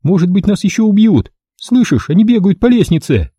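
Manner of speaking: high anxious female voice; frightened woman. A narrator's reading. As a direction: hiss a scared warning.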